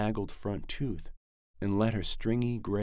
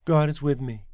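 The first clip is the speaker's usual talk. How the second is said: louder, muffled through a door; muffled behind door; 8 semitones higher, 9 dB louder than usual. Acted. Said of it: "muffled from behind the door".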